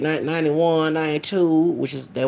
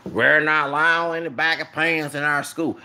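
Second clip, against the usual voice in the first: put-on a deeper retake of the Southern principal accent. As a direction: lower the voice and do the stern old Southern principal again. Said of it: "let me get more deeper".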